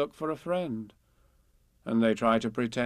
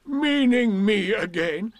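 loud, high, drawn-out donkey disbelief; Eeyore; 9 semitones higher, 8 dB louder, slower than usual. A narrator's reading. Eeyore asks if Piglet means him, slow and astonished. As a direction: stretch it out in astonishment.

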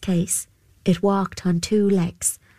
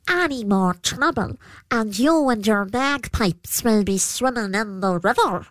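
snarling; 3 semitones higher than usual. Acted. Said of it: "he snarled".

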